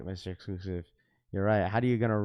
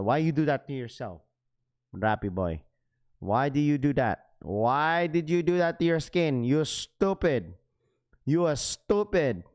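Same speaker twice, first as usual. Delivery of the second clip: put-on Filipino mom accent; 3 semitones higher than usual. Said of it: "That's exactly what my mom said".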